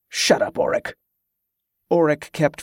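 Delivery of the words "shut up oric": hissed whisper, short and sharp; whispered shush. Acted. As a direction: whisper a curt shut up. Curt hushed retort to cousin.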